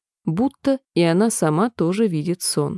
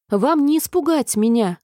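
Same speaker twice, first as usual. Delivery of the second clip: higher, bold cry; defiant exclamation; 6 semitones higher than usual. A narrator's reading. Alice defies the queen, exclaiming boldly. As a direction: stand up to the queen. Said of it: "воскликнула Алиса".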